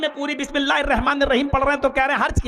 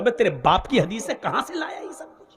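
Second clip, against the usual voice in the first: mocking laugh. Mocking retort to a fabricated hadith.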